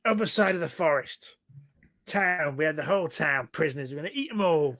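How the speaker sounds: a hint of a boastful goblin; pompous goblin. Goblin reports captured town to hobgoblin, lightly boastful. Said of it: "He goes".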